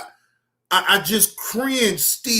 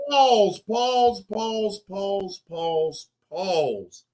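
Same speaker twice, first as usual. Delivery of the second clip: urgent pause calls; much slower than usual. Real, not acted. Reactor scrambling to stop the video, urgent then fading. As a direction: hit pause fast, then let it die off. Frantically pausing the clip.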